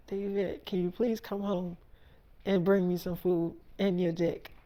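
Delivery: soft, coaxing plea; soft pleading. Retold or imitated. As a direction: ask softly, sweetly coaxing. Wife asks him to come home.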